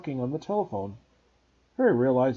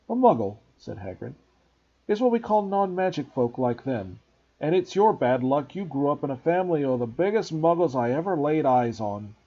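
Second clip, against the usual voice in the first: Hagrid voice; 3 dB louder than usual. Acted. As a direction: scoff like a big gamekeeper. Hagrid explains.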